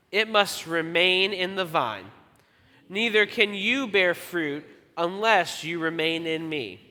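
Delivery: slow, measured read-aloud with deliberate gaps; group scripture reading. Real, not acted. Pastor leading congregation in reading aloud, slow recitation. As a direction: read scripture slowly so everyone can keep together. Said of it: "We're all gonna read it together".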